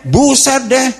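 mock slangy outburst, high; exclaiming gamer.

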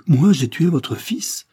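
aigu, fort et lent, abasourdi; stupeur incrédule. Acted. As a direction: crie ton incrédulité, lentement. Le duc s'écrie, incrédule. (stupeur criée, lente)

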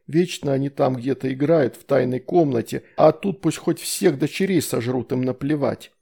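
usual speaking voice

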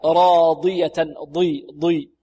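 careful Quranic demo of راضية; heavy ḍad. Shown as a demonstration. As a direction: keep the ضي emphatic despite its kasra. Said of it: "أقل مراتب التفخيم أو الاستعلاء".

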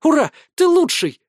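high squealing cheer. Acted. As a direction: squeal with delight, loud. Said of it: "завизжала девчонка".

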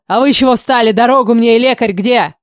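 king shouting orders over the wounded princess. A narrator's reading. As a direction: yell at the guards to clear the way. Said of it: "снова кричит на кого-то".

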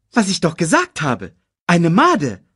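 high, quick cartoon meerkat; chirpy little sidekick voice. Timon answers.

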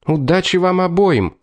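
a narrated shout that rises high in pitch; shouted farewell. A narrator's reading. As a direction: call good luck across to them. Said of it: "крикнула Паула".

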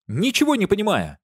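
high, loud cry of confusion; loud baffled shout; exasperated shout. A narrator's reading. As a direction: yell it, baffled and annoyed. Gardener can't hear, shouts.

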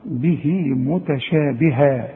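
"به" as bihii running into "متشابها"; slow, long vowels through "به متشابها"; joined reading. Shown as a demonstration. Teacher showing connected recitation, slow with lengthened i. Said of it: "إذا وصلت".

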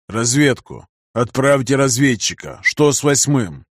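gasping, careful enunciation; forcing words out with shallow breaths; short shallow breaths. Acted. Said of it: "Он говорил медленно, дыша коротко и неглубоко".

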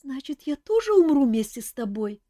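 high, frightened chick voice; trembling little voice. A narrator's reading. Chick fears dying with Kantor, high trembling. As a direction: ask it shaking with fear. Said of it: "дрожащий голосок".

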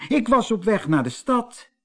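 high little mermaid voice. A narrator's reading. Little mermaid on her way to town, high small voice.

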